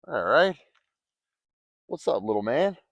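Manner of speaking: triumphant little cheer; excited. Real, not acted. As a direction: cheer as the fish lands. Fish landed.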